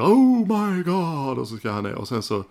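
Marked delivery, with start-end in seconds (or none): 0.0-1.4 high, slow, far-off shriek "Oh my God!"; a startled scream, stretched out. Retold or imitated. Woman reacting to Gene backstage, shrieking.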